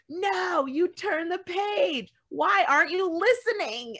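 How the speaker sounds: high, slow, pleading puppet monster; Grover voice. Retold or imitated. Parent reading to child as Grover, high and pleading. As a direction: beg the reader to stop like a fussy Muppet.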